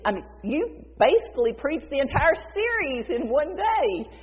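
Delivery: butter him up with eager praise; gushing flattery. Retold or imitated. Disciple flattering Jesus before interrupting, gushing.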